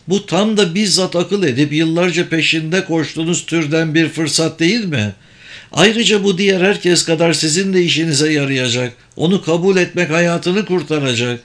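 a lightly voiced mage explaining the scheme; kendinden emin büyücü. Sabır presses the offer. (kendinden emin, açıklayan büyücü sesi)

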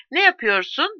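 high alarmed shout. A narrator's reading. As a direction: shout to stop him. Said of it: "diye bağırdı Drummond". (yüksek sesle bağırış)

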